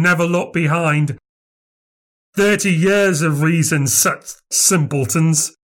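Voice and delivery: a mad little man muttering his own superiority; breathless conceit. A narrator's reading. Bearded man talking to himself, breathless and conceited. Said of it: "in that tone of breathlessness and unbounded conceit".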